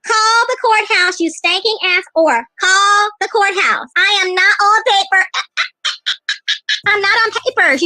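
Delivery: slow, drawn-out defiant words; emphatic and very slow; defiant retort. Real, not acted. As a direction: stretch each word out defiantly.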